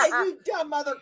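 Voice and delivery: 2 laughing singsong insult; 3 rub it in with a laugh; 1 gloating taunt. Real, not acted. 4 player gloating over beaten rivals, laughing taunt.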